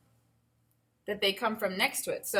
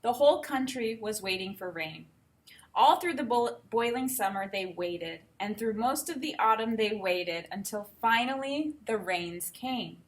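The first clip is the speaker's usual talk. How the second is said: put-on reading a picture book aloud to kids; unhurried storybook telling; story narration.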